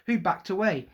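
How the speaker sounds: plain reading voice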